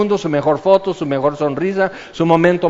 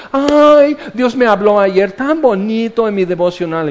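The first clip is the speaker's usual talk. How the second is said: gushing believer; 4 semitones higher, 3 dB louder than usual. Acted. A churchgoer tells friends about devotional time, gushing. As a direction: mimic a delighted, gushy churchgoer. Mimics gushing Christians at a gathering.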